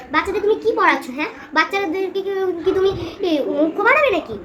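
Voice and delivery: a tutor tearing into the fake teacher; building outrage, ending in a shout; indignant scolding. Tutor confronts the ignorant teacher.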